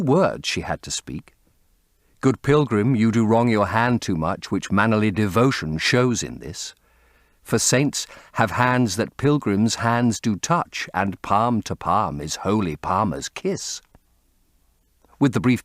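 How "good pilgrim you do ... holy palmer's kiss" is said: artificial recitation. A narrator's reading. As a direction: recite the lines prettily but lifelessly. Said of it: "spoken in a thoroughly artificial manner".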